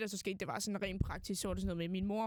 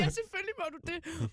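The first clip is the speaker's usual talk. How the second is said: kind friend; 9 semitones higher, 4 dB louder than usual. Retold or imitated. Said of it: "Og Mikkel er sådan".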